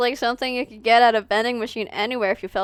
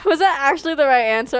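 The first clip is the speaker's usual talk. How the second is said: laughing; 2 semitones higher, 7 dB louder than usual. Real, not acted. Laughs at dialogue result.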